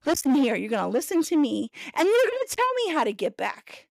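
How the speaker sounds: put-on high, commanding lecture to a boyfriend; woman ordering her boyfriend to navigate; bossy scolding. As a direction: lay down the law. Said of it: "I was like".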